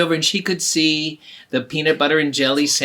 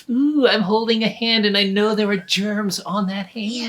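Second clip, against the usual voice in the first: put-on higher, louder squeamish girl; grossed-out girl; 6 semitones higher, 4 dB louder than usual. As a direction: squirm as you say it. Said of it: "Stinky's going".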